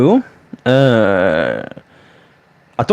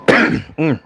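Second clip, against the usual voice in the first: throat clearing. Real, not acted. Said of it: "I'm sorry".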